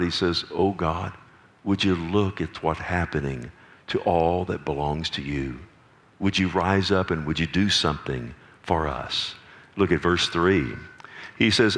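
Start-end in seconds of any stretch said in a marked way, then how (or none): 0.5-9.3 subdued, lowered plea to God; pleading cry. Acted. Preacher voicing Asaph begging God to act, subdued pleading. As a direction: cry out softly, voice sinking as you plead. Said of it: "Asaph is crying out".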